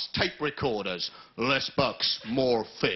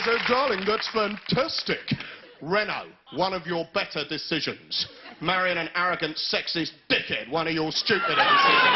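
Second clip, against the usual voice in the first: mock wife retort. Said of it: "She says".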